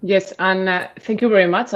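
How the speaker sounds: glitchy, breaking-up connection; choppy distorted call audio; corrupted glitchy audio. Real, not acted. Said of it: "I'm sorry for this, this, uh, sound problem".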